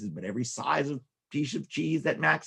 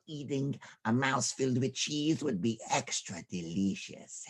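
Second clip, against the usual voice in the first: slow, lightly voiced villain cat; a hint of a hungry cat; sly cat; 4 dB quieter than usual. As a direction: gloat slowly over the mice. Cat gloats about eating.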